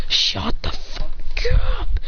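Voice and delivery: high-pitched, drawn-out shout back; acted irritated yell. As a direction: yell it way up high, stretching the words. Taunted boy snaps back.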